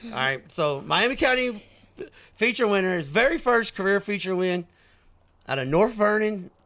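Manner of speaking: high, booming race announcer, Indiana stretched; sprint car announcer. Shown as a demonstration. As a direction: hype the feature winner like the Chili Bowl PA. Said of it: "that's how they do the Chili Bowl".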